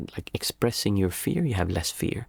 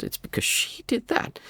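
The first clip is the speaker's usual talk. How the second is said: mock whiny excuse, rising higher and slower; making excuses; 5 semitones higher than usual. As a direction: defend yourself like a petulant child. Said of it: "wanting to make excuses".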